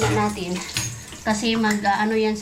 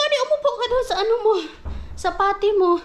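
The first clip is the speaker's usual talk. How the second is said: retold instruction; 9 semitones higher than usual. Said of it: "Sabi ko".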